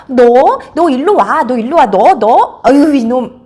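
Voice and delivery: acted dad's exasperated outburst; playful scolding. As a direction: come after the kid with a loud "you rascal". Dad mock-scolding playful child.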